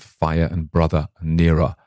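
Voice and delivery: FIRE, BROTHER, NEARER ending without R; final R's dropped. Shown as a demonstration. Showing the attempted Maine accent, no final R's. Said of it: "missed out the, the R's at the end".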